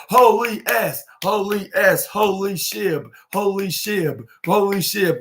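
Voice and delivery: "shib" ending on a B sound, not the T of the real word; holy shib with a B. Retold or imitated. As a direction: fans chanting "holy shib", B instead of T. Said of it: "shib with a B rather than a T".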